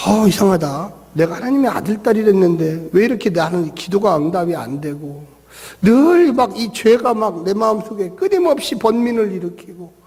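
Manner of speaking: low, puzzled self-questioning; confused brooding. Acted. Believer wondering why prayers go unanswered, mildly confused brooding. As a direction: think aloud in troubled doubt, mostly low. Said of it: "혼돈스러워".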